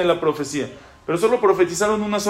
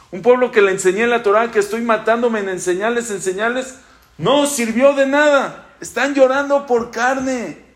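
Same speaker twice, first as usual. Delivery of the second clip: anguished outcry; 5 semitones higher than usual. Acted. Moshe's anguished complaint, voice rising.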